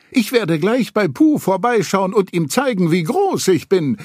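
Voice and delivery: high, proud, happy calling out. A narrator's reading. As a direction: show off, bursting with joy. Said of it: "rief er glücklich".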